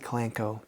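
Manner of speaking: kalanchoe said kuh-LAN-koh, with a hard K; alternative pronunciation. Shown as a demonstration. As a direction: say kalanchoe with CH sounded as K. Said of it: "if you wanna pronounce it".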